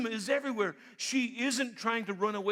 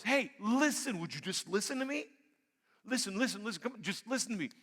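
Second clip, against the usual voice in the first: pleading call. Acted. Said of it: "wisdom cries out".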